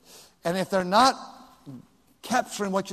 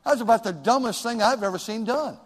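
blunt rebuke; 2 semitones higher than usual. Retold or imitated. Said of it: "others they like that".

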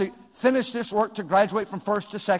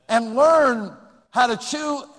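sarcasm; 3 semitones higher, 4 dB louder, slower than usual. Acted. Sarcastic jab at modern kids.

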